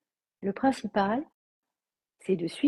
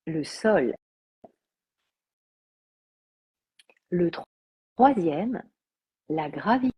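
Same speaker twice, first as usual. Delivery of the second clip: measured meditation voice with long pauses; guided yoga nidra. Acted. Teacher introducing the six elements of yoga nidra, calm guided meditation. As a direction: list each element slowly, leaving space after it.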